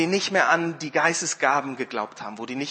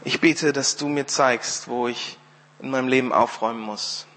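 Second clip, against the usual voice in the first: measured prayer, falling lower; personal prayer; 3 semitones lower than usual. Real, not acted. Preacher praying to the Father for himself, measured prayer. Ich bete jetzt in der Ich-Form.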